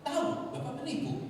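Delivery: high, ringing accusation thrown straight at him; bold accusation. Retold or imitated. Speaker boldly calls the con man a fraud, high and ringing. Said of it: "Saya ngomong begitu loh".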